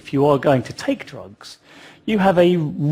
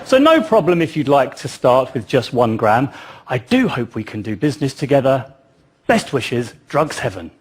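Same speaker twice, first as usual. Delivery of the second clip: lightly hammed-up posh English accent. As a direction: read the email as a polite, posh English vendor. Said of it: "he had a posh English accent".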